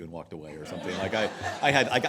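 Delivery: laughing. Real, not acted.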